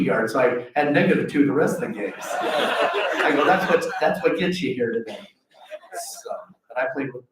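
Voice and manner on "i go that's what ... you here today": laughing. Real, not acted. Self-mocking punchline, laughing.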